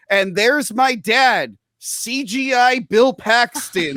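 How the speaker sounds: slow, lightly hammed-up dramatic line; mock movie-dialogue delivery, drawn out; a hint of a dramatic reveal; imagined movie reveal.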